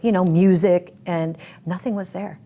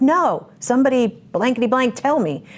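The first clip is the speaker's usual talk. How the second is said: insistent demand; 6 semitones higher, 4 dB louder than usual. Retold or imitated. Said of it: "I said".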